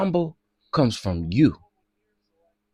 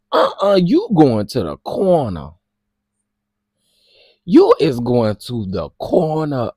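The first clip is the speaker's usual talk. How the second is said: louder, sending someone to the corner; playful loud reprimand; mock scolding; 5 dB louder than usual. Real, not acted. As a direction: scold like a sassy parent.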